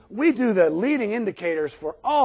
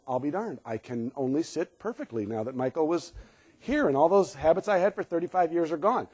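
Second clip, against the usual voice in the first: mock amazement; 4 semitones lower, 7 dB quieter than usual. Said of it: "walk out going".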